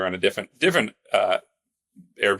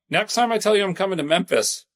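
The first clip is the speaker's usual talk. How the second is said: high-pitched mock complaint, raised voice; retold yelling; 10 semitones higher than usual. Complaining to the house cleaner about Memphis heat, mock yelling. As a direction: start high and exasperated, as if calling across rooms. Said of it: "in the other room, and I yelled".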